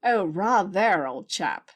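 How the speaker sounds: drawn-out, playful British toff imitation; mock British accent. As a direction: play along in fake British, slowly. Answers his phony British banter.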